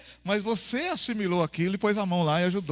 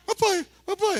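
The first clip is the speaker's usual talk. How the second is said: put-on begging child; 10 semitones higher than usual. Filho implora ao pai.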